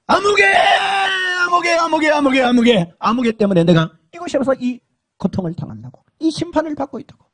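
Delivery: crying, shouted curse of a name; cursing. Retold or imitated. Damned man cursing the woman he forced. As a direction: curse her name through the pain. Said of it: "막 저주합니다".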